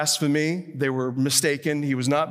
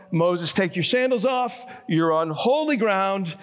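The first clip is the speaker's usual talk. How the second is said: lightly raised, measured divine call; 3 semitones higher than usual. Retold or imitated. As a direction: quote God calling to Moses, only mildly projected. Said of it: "A voice calls out".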